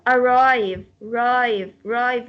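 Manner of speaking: "arrive" with weight on RIVE; stress on second syllable. Shown as a demonstration. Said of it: "We stress this part".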